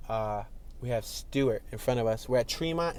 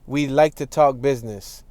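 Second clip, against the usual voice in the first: put-on slow, louder ad read in a Boston accent; 12 dB louder, slower than usual. Boston accent, reading a billboard line aloud. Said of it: "that's how they talk".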